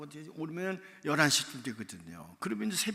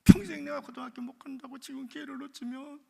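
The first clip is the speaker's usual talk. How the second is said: tearful begging; 7 dB louder than usual. Retold or imitated. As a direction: plead through sobs. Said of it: "내가 소리 내서". (높고 느리게 울먹이며 애원)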